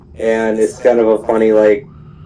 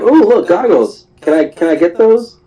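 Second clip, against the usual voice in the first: put-on high-pitched excited child; little girl; 9 semitones higher than usual. Little girl notices goggles on store counter, high and eager. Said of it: "this little girl comes in".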